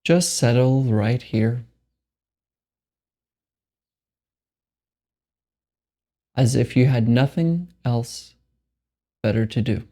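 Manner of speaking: slow, spacious meditation guidance with long pauses; guided meditation. Acted. Meditation guide telling listeners there is nothing to do, unhurried guided meditation. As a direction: lead them unhurriedly into stillness, pausing between phrases.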